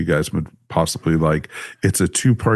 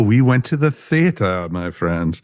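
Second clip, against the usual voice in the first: lightly affected upper-crust pronunciation of theater. Pretend. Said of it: "For a little bit of high class".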